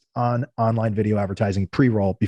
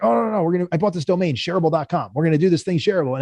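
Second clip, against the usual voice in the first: higher, eager brush-aside; excited pitch; 5 semitones higher than usual. Retold or imitated. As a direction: re-enact an impulsive brainwave. Founder pitching new idea to developers.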